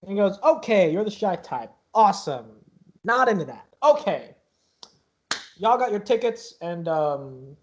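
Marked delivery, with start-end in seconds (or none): 0.0-6.5 awkward NPC voice. Acted.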